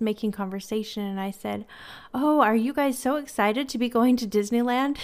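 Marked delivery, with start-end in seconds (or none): 2.1-5.0 retold excited question. Retold friendly question to little kids.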